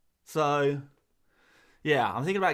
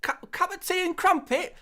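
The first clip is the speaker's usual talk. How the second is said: very high, loud, hammed-up bad British accent; American's fake British accent; 13 semitones higher, 10 dB louder than usual. Shown as a demonstration. Streamer mocking Americans who imitate the English, absurd high-pitched British accent. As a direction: squeal out an American's parody of English speech. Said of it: "an impression of an American person doing an impression of an English".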